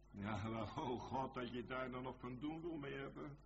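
ordinary talk, nothing marked

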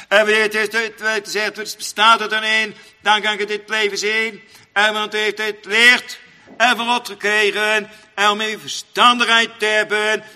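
loud, half-chanted pulpit cadence; preaching at full force. Acted. Preacher extols the godly man to the congregation, chanting. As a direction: lift the voice into sing-song preaching.

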